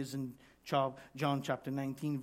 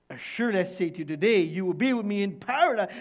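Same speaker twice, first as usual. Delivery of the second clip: loud, quick, insistent promise; emphatic assurance; 3 semitones higher, 6 dB louder, faster than usual. Acted. Preacher repeats Jesus' promise to thief, emphatic assurance. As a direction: proclaim it quickly and forcefully.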